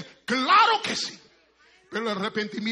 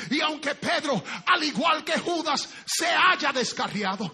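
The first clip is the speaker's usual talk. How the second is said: preaching building up; 4 semitones higher, 4 dB louder than usual. Acted.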